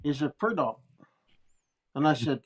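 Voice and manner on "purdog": imitated Navajo accent on "Purdog"; "Purdog" squeezed short in a mock Navajo accent; heavy Navajo accent. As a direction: run "Purdog" into two syllables, Navajo-accented. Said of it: "he's had his heavy Navajo accent".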